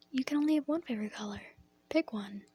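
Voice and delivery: lightly voiced classmate, quick at first; kindergarten partner. Partner corrects a child with three favorites, lightly acted, quick. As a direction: rattle off the rule, then a short order. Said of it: "My partner looks at me and goes".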